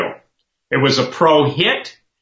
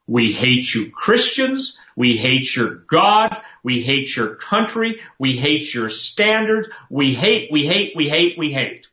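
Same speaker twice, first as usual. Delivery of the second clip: slow, hammed-up hateful chant; mock enemy voice; slower than usual. Preacher voicing the church's enemies, slow and mocking. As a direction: spell out the hatred word by word. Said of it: "here's what they're really saying".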